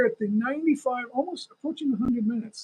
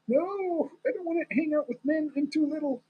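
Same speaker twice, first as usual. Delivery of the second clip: put-on little kid refusing; 6 semitones higher than usual. Little one refusing to hang out with men, mock kid protest. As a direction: lightly play a small kid's protest. Voices a young child refusing.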